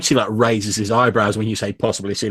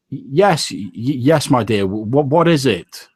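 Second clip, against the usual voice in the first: higher-pitched, stammering husband; familiar husband's voice; 4 semitones higher, 3 dB louder, slower than usual. Acted. Son answers his wife from behind the screen, flustered. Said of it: "a very familiar voice to you".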